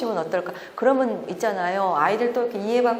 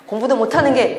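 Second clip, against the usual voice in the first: louder, mock-scolding jab; mock scolding mother; 3 semitones higher, 7 dB louder than usual. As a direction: imitate a mom snapping at her daughter. (딸을 꾸짖는 엄마 흉내, 조금 큰 소리로)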